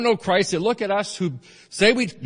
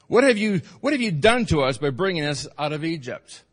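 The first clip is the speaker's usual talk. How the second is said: complaining Israelites; 3 dB louder than usual. Retold or imitated. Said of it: "they said to Moses".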